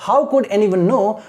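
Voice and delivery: very slow read with a rise on how; slow teacher demo; slow question reading. Shown as a demonstration. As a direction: read the question slowly for students to copy. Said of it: "ऐसे पढ़ते हैं".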